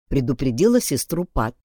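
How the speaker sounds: ordinary delivery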